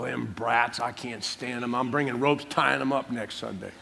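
lightly voiced fed-up Sunday school teacher; low-key griping under your breath; mock grumbling.

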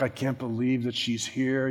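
hushed, low aside of an onlooker; scandalized murmur. Retold or imitated. Guests freak out as the woman comes in, scandalized murmur. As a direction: drop right down, as if gossiping.

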